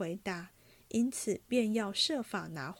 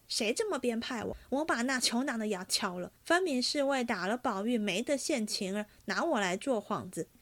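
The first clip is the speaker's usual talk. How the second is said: angry ranting; 2 semitones higher, faster than usual. Acted. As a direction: rattle it off like a hothead cornered by blame. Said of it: "又骂众人".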